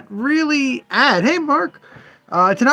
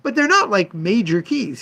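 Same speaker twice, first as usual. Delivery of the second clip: higher, lightly voiced customer brushing it off; imitating the collector; 6 semitones higher than usual. Shop owner mimics a collector shrugging off the keys, higher voice. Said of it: "he goes".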